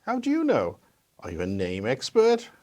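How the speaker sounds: touchy retort, pitch leaping then dropping; testy tone. Acted. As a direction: question it sharply, taking offence. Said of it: "I apologize for my tone".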